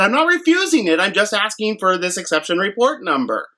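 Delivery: high, emphatic pushback at the driver; mock indignant correction; insistent protest. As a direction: insist you're not refusing. Arguing with the delivery driver.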